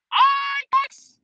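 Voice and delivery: Iconics! stretched out, very high and slow; a long delighted fan squeal of the name; excited squeal. Real, not acted. Fan squealing the tag team's name to chat.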